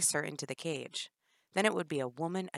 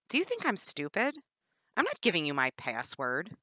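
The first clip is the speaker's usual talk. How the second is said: defiant; 2 semitones higher, 4 dB louder than usual. Acted. Prisoner defies captor.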